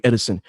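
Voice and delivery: "Edison" said in three syllables, with an added I; low "Edison", ED-i-son; mispronounced name. Retold or imitated. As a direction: say "Edison" with an extra middle vowel, like a substitute teacher. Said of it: "no I".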